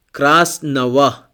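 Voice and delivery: красного with the unstressed ending said wa, КРАС-но-ва. Shown as a demonstration. Teacher showing learners that красного ends in an unstressed wa. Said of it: "the letter O is unstressed".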